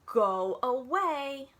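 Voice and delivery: very slow, loud grumpy grumble; slow, loud cross turtle voice. Acted. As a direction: growl it slowly from inside the shell. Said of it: "would not come out of his shell".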